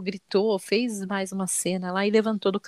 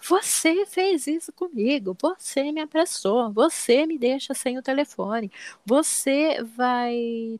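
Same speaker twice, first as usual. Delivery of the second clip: mock indignant complaint, higher and drawn out; imitating nervous yelling; 4 semitones higher, slower than usual. Mother imitating her son blaming her over the charger, mock nervous yelling. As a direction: act out a worked-up child demanding, voice raised in pitch. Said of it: "ele começa a gritar e a ficar nervoso".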